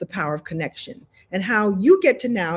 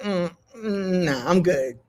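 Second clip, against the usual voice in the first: polite refusal; slower than usual. Pretend. A lesson that taught her to say no, mock dismissive. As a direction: lightly brush it off. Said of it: "be like".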